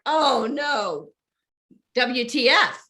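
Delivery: loud mock alarm; comic dismay. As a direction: act out a rude awakening for laughs. Acts out dismay on landing on earth.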